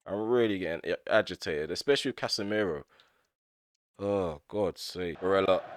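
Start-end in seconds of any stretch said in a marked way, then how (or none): none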